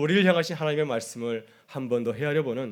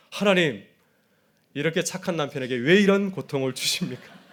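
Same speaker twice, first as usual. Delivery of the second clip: mock tantrum; 3 semitones higher, 4 dB louder than usual. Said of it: "꼬라지를 부렸습니다".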